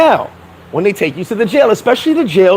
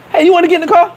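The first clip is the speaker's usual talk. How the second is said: mock detective call; 11 semitones higher, 4 dB louder, much faster than usual.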